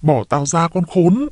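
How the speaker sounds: slow cry of outrage, volume held back; angry yell. A narrator's reading. Trà demands to be let go, yelling angrily. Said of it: "Chị Trà hét lên".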